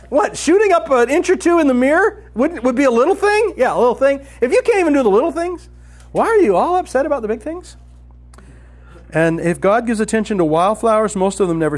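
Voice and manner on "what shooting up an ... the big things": laughing. Real, not acted. Laughing at the Jesus text.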